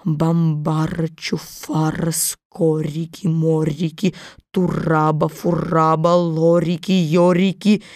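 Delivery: low, slow chanted spell; slow incantation. A narrator's reading. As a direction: read the spell slowly like magic words. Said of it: "начала медленно читать".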